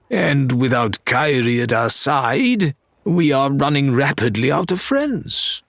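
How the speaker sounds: a hint of a wry first mate; lightly voiced Faisal. First mate explains their troubles to Larinna, lightly voiced, wry. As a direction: state it plainly, with dry regret.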